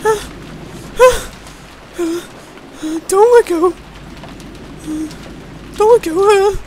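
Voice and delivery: feverish gasps and weak moans; labored breathing. Acted. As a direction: struggle for breath through a fever. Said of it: "Eva's harsh breathing".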